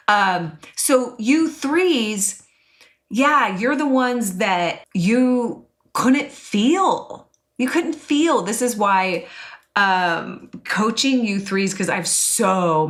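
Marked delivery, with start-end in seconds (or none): 0.8-8.4 tender. Real, not acted. Tender address to threes.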